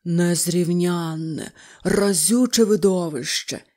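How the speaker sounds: slow, dazed enchanted mumble; mumbling in a trance. A narrator's reading. Toad ignoring Rat, slow dreamy mumble. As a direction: murmur it as if spellbound. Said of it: "пробелькотів жаба".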